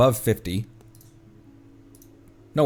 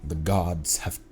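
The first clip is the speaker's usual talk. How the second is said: slow, hushed whisper; film quote; 4 semitones lower, 7 dB quieter, slower than usual. Acted. Player quoting a line from Troy, slow dramatic whisper. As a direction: whisper it slowly, like a solemn pronouncement. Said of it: "That's a quote from Troy".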